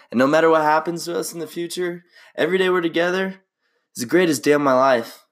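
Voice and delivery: lightly voiced movie heartthrob, earnest; Ryan Gosling impression. Friends said he sounds like Ryan Gosling, so he reads romantic lines as him.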